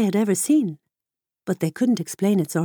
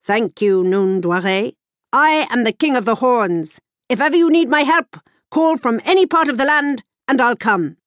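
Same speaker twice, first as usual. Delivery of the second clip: horned king; 4 semitones higher, 5 dB louder than usual. Acted.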